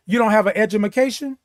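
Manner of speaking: quick mock question with edumacation. Shown as a demonstration. Host teasing doubters, fast mock question with edumacation. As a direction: tease them with a fast, mocking edumacation. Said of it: "I said edumacation".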